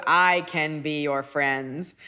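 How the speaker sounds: slow, deliberate robot voice; girl robot. Retold or imitated. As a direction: imitate a robot, stretching each word out. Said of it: "pretending to be a robot".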